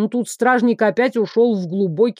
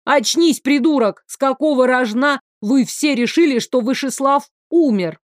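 a she-wolf barking at the fainting prince; barked; 3 semitones higher than usual. Acted. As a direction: snap him awake with a bark. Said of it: "и рявкнула".

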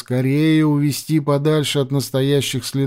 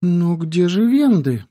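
put-on puzzled girl; 4 semitones higher than usual.

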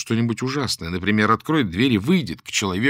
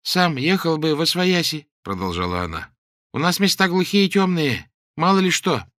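put-on pious old woman; 8 semitones higher, 4 dB louder than usual. The old woman tells the man about feeding birds, pious. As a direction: speak like a meek church granny.

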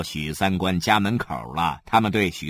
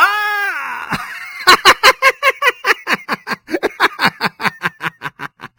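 long shrieking high laugh; loud laugh; 6 dB louder than usual. Acted. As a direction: burst into a huge cackle. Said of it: "李血头突然叫了起来".

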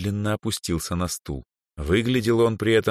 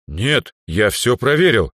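calm and firm; 6 semitones higher, 6 dB louder than usual. Acted. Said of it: "отвечал спокойно и твёрдо эльф".

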